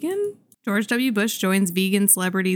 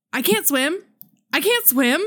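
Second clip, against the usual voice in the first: imitating a panicked cry of can't swim, pitched up; panicked billionaire; 6 semitones higher than usual. Imitating a movie billionaire who panics in the water. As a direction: squeak out a mock panicked plea. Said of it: "And he goes".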